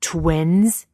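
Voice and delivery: loud, booming villain outburst; thundering Vader. A narrator's reading. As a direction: thunder it out in disbelief. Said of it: "Vader thunders".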